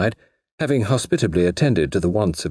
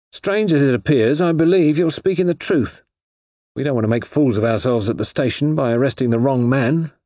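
lightly voiced inspector, higher pitched; believing inspector; 6 semitones higher than usual. A narrator's reading. Inspector to suspect he now believes, lightly acted conviction. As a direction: state your belief with raised pitch.

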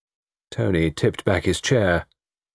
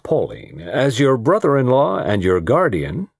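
weighty guardian's pronouncement; heavy; 5 semitones higher than usual. Acted. Brother-in-law claiming a dance from his ward, heavy. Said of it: "Barton Russell spoke heavily".

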